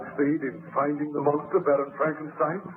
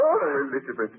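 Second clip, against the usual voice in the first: a much higher, anguished cry of her name; anguished plea; 12 semitones higher than usual. Acted. Victor begs Elizabeth not to hate him, in a high anguished plea. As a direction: plead with her, voice leaping high in pain. Pleading after her outburst.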